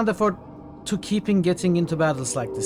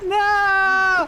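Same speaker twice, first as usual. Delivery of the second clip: mock bear roar; 6 dB louder than usual. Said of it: "my best bear impression".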